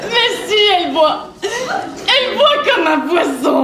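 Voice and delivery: crying. Acted. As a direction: blubber it out miserably. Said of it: "Arrête de pleurer". (en pleurnichant, mots étirés)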